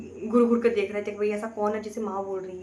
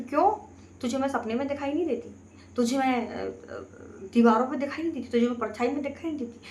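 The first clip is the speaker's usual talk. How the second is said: possessed goddess voice; 4 semitones higher than usual. Retold or imitated. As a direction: voice the goddess speaking through the aunt, pressing hard. Possessed aunt speaking as goddess. (देवी की सवारी वाली ऊँची, ज़ोरदार आवाज़ की नकल)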